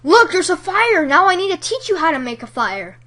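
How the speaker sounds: mock frantic shout; crazy lunatic. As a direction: ham up a crazed fire teacher. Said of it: "some crazy lunatic who's like".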